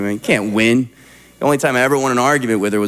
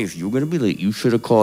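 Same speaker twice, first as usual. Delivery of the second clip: lower, dropped-down scolding; low angry wife; 4 semitones lower, faster than usual. Retold or imitated. Wife scolding a late husband, low and stern. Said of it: "women drop down when they're angry".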